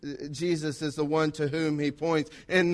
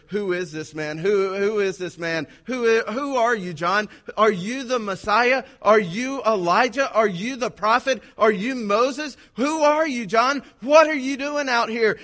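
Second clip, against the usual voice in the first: crowd demanding; 3 semitones higher than usual. Acted. The crowd interrogating John in the wilderness, urgent and higher. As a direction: press him with rising, urgent questions.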